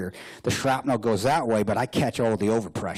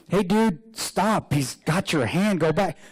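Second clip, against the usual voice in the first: higher-pitched mock call after someone; raised, incredulous call, acted; amused calling out; 7 semitones higher, slower than usual. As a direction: call out to stop a guy, half laughing. Acting out what he wanted to call.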